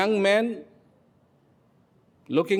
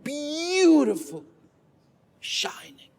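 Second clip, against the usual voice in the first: marvelling; 10 semitones higher, slower than usual. A narrator's reading. Storyteller marvels at gold axe.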